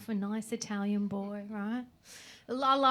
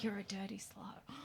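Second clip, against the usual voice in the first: hissed insult; 3 semitones lower, 12 dB quieter than usual. Retold or imitated. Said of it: "He was like".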